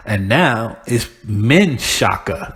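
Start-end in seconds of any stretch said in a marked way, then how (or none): 1.3-2.6 "Menshaka" slowly, with MEN first; changed pronunciation. Shown as a demonstration. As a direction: say "Menshaka" as men-SHAH-kah. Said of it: "They changed it to M E N Shaka".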